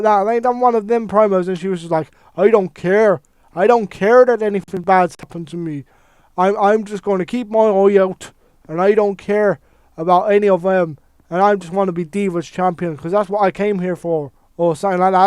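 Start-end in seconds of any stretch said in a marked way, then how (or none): 2.4-14.3 a lightly put-on, tired Irish accent; half-hearted Irish accent, barely tried; terrible Irish impression. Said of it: "That was a terrible Irish impression".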